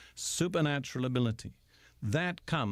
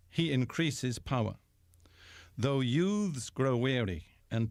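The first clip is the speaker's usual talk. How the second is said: scripture reading. Acted. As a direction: read each line like a solemn promise. Reads Isaiah passage aloud.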